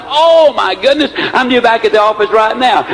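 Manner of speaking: high, startled exclamation; retold alarm. Boss noticing the time at the country club, mildly hammed-up alarm. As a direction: voice a man suddenly realizing he's late.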